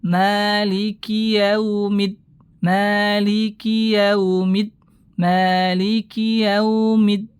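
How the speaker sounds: yaumid said soft and relaxed, slowly; soft easy yau. Shown as a demonstration. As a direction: let yau flow easily. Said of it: "Lembut, rileks, mudah".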